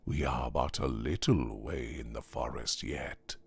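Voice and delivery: soft, unhurried elder, gently persuading; lightly voiced serpent-staffed traveller; smiling tempter. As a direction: coax him onward, quietly and reasonably.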